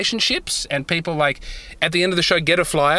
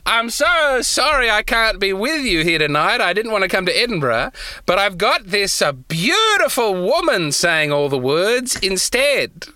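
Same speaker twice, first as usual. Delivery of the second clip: pretend host intro; 3 semitones higher than usual. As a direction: introduce the stand-in with mock grandeur. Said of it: "you come out dressed as me and you're like".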